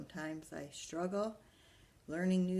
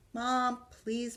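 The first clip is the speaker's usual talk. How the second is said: put-on high pleading child voice; begging; 7 semitones higher, 4 dB louder than usual. Arthur begging Mom to let him play, high. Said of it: "begged Arthur".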